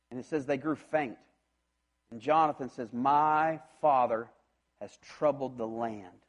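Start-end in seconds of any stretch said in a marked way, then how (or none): 2.9-6.2 slow and grave, sinking down; slow lament. Acted. Jonathan sadly blaming his father, slow and grave. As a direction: let it fall heavy and slow, in sorrow.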